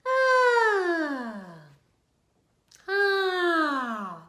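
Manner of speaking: high loud ah sliding down; falling yawn. Shown as a demonstration. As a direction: let the yawn fall. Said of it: "Do that a couple times".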